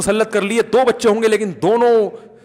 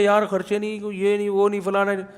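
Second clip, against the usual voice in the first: mock tense grumbling; 5 dB quieter than usual. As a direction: softly imitate a worried complainer. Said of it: "کوئی دیکھا tension میں". (بناوٹی پریشانی میں دبی آواز)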